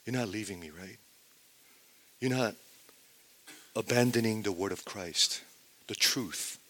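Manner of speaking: softly spoken, mildly pleading; a gentle statement seeking assurance; heart-wrenching appeal. Acted. Jesus asking disciples not to abandon him, softly appealing. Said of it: "Jesus asking this heart-wrenching question".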